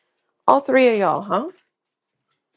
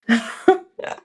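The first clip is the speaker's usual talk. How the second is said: laugh; 4 semitones higher than usual. Real, not acted. Amused while chatting at craft table.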